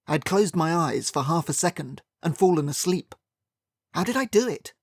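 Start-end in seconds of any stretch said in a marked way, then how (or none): 3.9-4.7 higher, baffled self-reproach; incredulous. A narrator's reading. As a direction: ask in disbelief.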